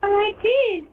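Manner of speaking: cartoon character voice. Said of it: "you're speaking like a cartoon character".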